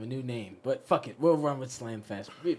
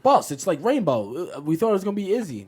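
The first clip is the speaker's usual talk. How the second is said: loud, higher pleading to the boss; acted alarmed employee; 6 semitones higher, 9 dB louder than usual. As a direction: blurt it out like a worried underling. Acting out designers complaining to boss.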